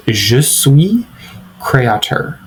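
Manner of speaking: Je suis créateur spoken slowly in French; French demo. Shown as a demonstration. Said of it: "Our next example of this framework is".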